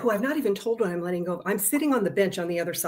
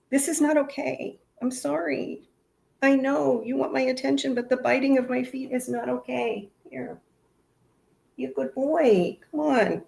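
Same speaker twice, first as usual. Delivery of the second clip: talking to the dog; 6 semitones higher than usual. Real, not acted. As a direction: gently tell the puppy off. Scolding her biting dog Beasley.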